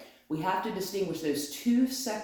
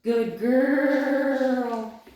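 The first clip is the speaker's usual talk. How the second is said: higher, louder praise; excited praise; 7 semitones higher, 7 dB louder than usual. Real, not acted. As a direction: lift it up for the dog.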